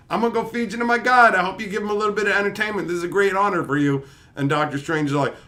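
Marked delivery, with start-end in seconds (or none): 0.1-4.0 higher, quick gloating villain voice; a hint of a smug captor; mock villain gloat. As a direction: rattle off a smug threat. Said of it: "he's like".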